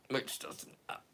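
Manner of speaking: breathless whisper, air gone; out of breath. Real, not acted. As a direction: squeeze it out with no breath. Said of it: "I haven't taken a breath".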